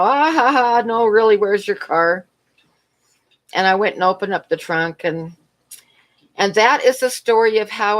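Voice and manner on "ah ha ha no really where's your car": imitating his laugh, high, then a slow "really"; retold scoffing laugh, higher pitch; mock laughing disbelief. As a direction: mimic a cashier chuckling in disbelief. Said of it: "he starts laughing".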